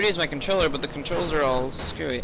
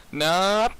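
loud no; 6 semitones higher, 6 dB louder than usual. Real, not acted. Game mishap.

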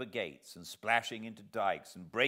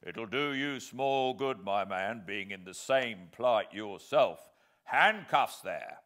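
stern sergeant; 5 dB louder than usual. Acted. Sergeant gives orders.

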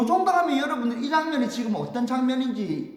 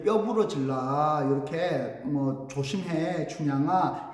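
slow, lower, mildly concerned; lightly voiced sympathetic warning; gentle caution; 4 semitones lower, slower than usual. Guard secretly cautions Chunhyang with sympathy.

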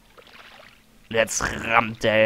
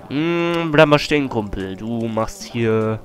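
tough guy threatening; 4 dB louder, slower than usual. Acted. Voicing a tough enemy.

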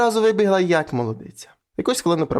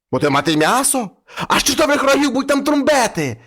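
put-on noisy children; 7 semitones higher than usual. Ragged children shouting gleefully at their father about the devil. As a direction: shriek it like wild excited kids.

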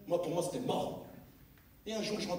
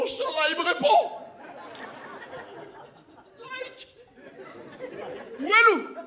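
high, loud hopeful cry; half-joking prayer of hope; excited hoping; 4 dB louder than usual. Retold or imitated. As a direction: beg the sky for an answer. Hopeful kid praying for a reply.

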